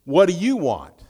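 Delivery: brusque and fast, almost rude; curt impatience. Retold or imitated. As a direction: rush it out, a busy man cutting to the point. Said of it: "with the same voice inflection, with the same attitude".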